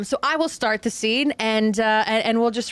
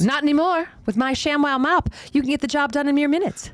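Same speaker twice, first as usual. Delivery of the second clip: lightly voiced, higher sales pitch; infomercial pitch; 5 semitones higher than usual. Crystal selling Marie a mop, mock infomercial brightness in raised pitch. Sketch turns into a parody infomercial.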